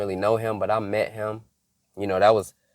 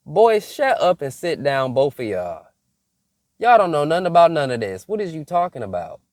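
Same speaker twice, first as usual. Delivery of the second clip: scolding; 4 semitones higher, 4 dB louder than usual. Retold or imitated. Scolding cousins, shut up.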